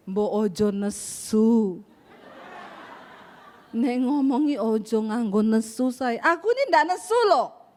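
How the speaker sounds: low, slow and gentle Javanese husband; drawn-out mild complaint, unhurried; slow soft Solo talk. Retold or imitated. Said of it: "Orang Solo kalau ngomong pelan, halus".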